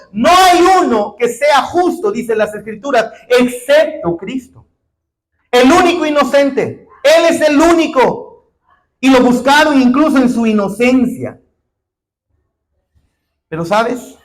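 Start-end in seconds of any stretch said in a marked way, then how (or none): 0.1-11.4 rising, louder, higher preaching voice that climbs to a shout; preaching at full force. Acted. Preacher quoting Romans to the congregation, building to a shout. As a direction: hammer each "no hay" harder than the one before.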